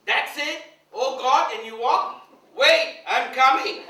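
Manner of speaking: high, loud, slow excited call; eager disbelief. Retold or imitated. Guru calling to the milkmaid, high, loud and slow. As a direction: rush to follow her.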